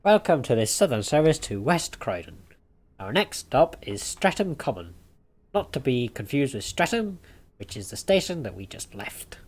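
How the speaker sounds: mock conductor PA voice; train announcer.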